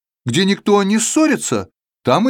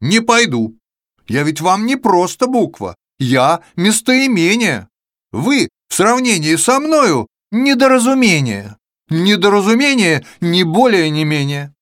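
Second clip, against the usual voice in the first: haughty letter voice; 3 semitones higher than usual. Acted. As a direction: look down on everyone, boastful. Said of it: "отвечает".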